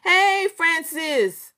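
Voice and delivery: high, slow sing-song hey; drawn-out greeting. Real, not acted. Greeting viewer Francis, high and drawn out. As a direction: stretch the hello out.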